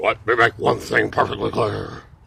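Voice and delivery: put-on old man voice, low and creaky. Doing impressions of presidents, Richard Nixon impression. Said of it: "And now my impression of former President Richard Milhous Nixon".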